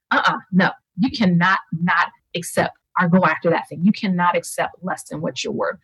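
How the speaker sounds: firm, emphatic insistence; passionate refusal. Retold or imitated. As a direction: insist on it with conviction. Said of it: "I started to feel this passion about".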